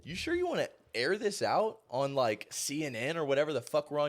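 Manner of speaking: lightly voiced worried anchor; mock alarmed co-anchor. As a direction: nudge a colleague to stop. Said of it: "the dude on air is like".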